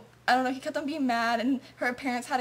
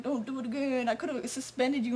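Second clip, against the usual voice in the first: fake-nice warning; 5 dB quieter than usual. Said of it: "thought he was acting all nice".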